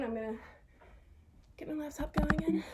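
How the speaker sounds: whispered aside; whispering. Real, not acted. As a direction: whisper it to yourself. Aside while fixing the laptop.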